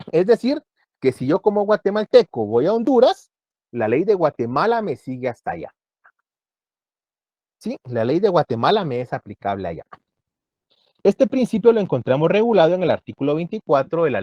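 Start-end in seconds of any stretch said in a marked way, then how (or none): none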